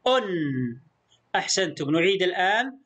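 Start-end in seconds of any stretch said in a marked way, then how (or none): 0.1-0.2 أن as "un", ending on a light held n; isolated أن, said "unnn" for pupils; damma tanween. Shown as a demonstration. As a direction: repeat أن with the nun lingering. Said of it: "لاحظ النون الساكنة الخفيفة في النطق".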